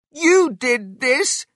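high, loud, slow accusation; shouting. A narrator's reading. Missus Cranky blames her husband, shouting. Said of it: "Missus Cranky shouted at her husband".

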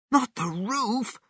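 high, softened dismay; worried thought. A narrator's reading. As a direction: think it in quiet alarm. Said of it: "thought George".

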